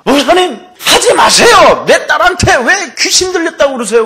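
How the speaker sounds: high, loud outburst of an outraged mother; imitated protesting shout. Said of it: "막 소리를 지르고 막 권사가".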